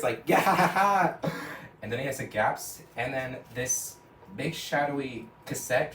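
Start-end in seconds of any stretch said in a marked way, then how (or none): 0.3-1.3 loud, high, slow victory cackle; hammed-up victory laugh; triumphant laugh. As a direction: laugh in celebration. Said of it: "Rigby celebrates".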